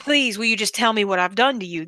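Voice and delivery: calm, even retold plea. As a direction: quote someone asking very calmly, without pushing. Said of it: "She was saying that very calmly".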